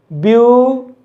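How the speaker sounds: ब्यूटीफुल split as ब्यू... टी... फुल, wide pauses between; syllable by syllable. Shown as a demonstration. Teacher showing three breath pulses, ब्यूटीफुल said syllable by syllable. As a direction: pronounce ब्यूटीफुल in three detached beats. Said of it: "तीन बार obstruction हुआ है".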